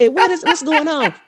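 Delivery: high, agitated disbelief; bewildered crowd. Retold or imitated. Imitating the app room reacting to her, high bewilderment.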